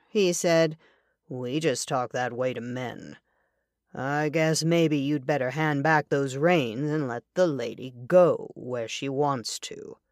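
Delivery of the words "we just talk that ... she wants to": a steady stranger warning the horseman off; lightly voiced stranger. The speaker's lower character voice.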